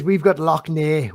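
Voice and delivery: slow "Loch Ness" said as "lock nay"; Neagh, no final S. Shown as a demonstration. Irish guest repeating himself for Matthew, "Ness" becomes "nay". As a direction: end "Ness" on an open "nay", no S. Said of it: "We don't have Loch Ness".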